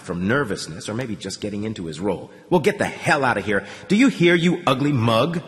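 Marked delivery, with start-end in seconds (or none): 2.5-5.4 a commanding guard, pushy and insulting; persuasive guard. A narrator's reading. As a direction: order him off with scorn. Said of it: "The voice sounded very persuasive, almost hypnotic".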